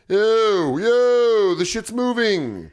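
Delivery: a startled dog noticing the car move; alarmed dog voice. Retold or imitated. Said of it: "She was like".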